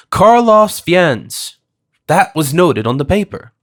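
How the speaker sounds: high, loud excited cry; excited shout. A narrator's reading. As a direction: blurt it out as the memory hits. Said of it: "and then shouted".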